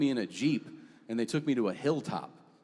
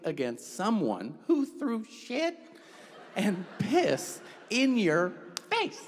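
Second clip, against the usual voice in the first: slow incredulous emphasis; 6 semitones higher, slower than usual. Real, not acted. Incredulous punchline, slowed and raised.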